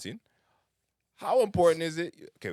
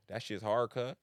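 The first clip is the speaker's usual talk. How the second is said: playful mock LA accent; LA slang, tried out in fun; 2 semitones higher, slower than usual. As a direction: put on a light LA street accent. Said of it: "like, an L A accent".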